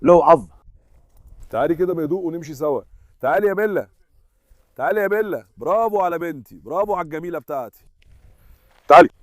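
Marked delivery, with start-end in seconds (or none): 1.5-7.8 soft, gentle coaxing; coaxing softly. Real, not acted. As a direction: lure a shy dog softly. Coaxing scared dog softly. (تدليل بصوت هادي)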